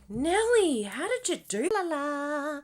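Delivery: high, sing-song gushing at a friend; playful gushing. Retold or imitated. Teasing friend Janelle about her card, gushing. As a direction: gush like you're asking a crafty friend. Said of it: "I was like".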